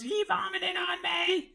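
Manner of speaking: high, slow, whiny complaint; whiny kid voice. Retold or imitated. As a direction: whine like an upset kid. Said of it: "He goes".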